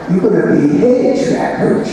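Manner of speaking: hint of an old boss handing out orders; imitating the boss. Boss Bauer offers the job.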